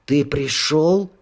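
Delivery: slow, airy ghostly voice; rustling ghost whisper. Acted. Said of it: "прошелестел призрак".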